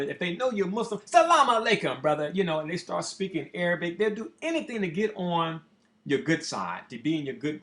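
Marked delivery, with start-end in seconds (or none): 1.0-2.3 high, stammering plea that gets louder on the greeting; a stuttering hustler begging for change; imitating a begging bum. A homeless man hitting up a Muslim passer-by, high stammering plea.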